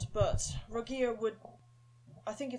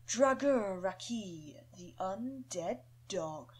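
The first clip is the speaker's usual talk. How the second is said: slow, growled demon wolf voice; slower than usual. Acted. Demon wolf growling a name at the undead dog. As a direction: drag it out like a rasping wolf demon. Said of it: "Deep, raspy, and sort of growled speech".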